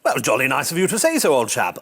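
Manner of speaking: a light, brief plummy toff voice; posh British chap. Acted. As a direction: keep the RAF officer act going a moment. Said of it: "I can't keep that up".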